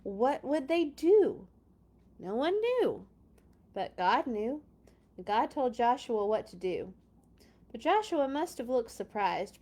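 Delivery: lively, expressive storybook narration; story reading for kids. Acted. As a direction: read it to children with wonder. Reads Bible story to children.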